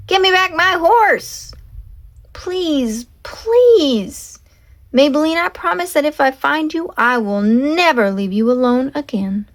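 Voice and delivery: high, begging please; desperate pleading. Acted. Leroy on his knees begging for his horse. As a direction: beg the storm to give her back.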